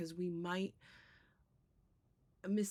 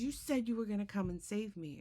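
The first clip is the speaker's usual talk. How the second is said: angry; 5 semitones higher than usual. Retold or imitated. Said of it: "angry himself".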